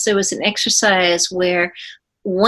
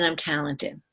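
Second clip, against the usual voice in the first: tearful admission; 3 semitones lower, 10 dB quieter than usual. Retold or imitated. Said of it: "I said".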